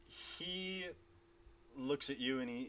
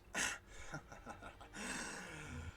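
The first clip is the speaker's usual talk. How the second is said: breathy villain laugh; 2 semitones higher, 10 dB quieter than usual. Acted. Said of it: "starts laughing".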